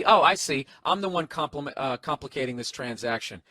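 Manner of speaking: mock-sarcastic retort, lightly put on. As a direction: read it as a customer's sarcastic comeback. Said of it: "he says sarcastically".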